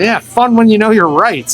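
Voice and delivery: high-pitched, gloating retort; mocking taunt. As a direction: rub it in, retelling a cheeky comeback. Teen taunting the cop.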